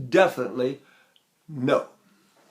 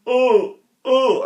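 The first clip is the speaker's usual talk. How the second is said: distorted tone; 8 semitones higher, 6 dB louder than usual. Retold or imitated. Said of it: "They go".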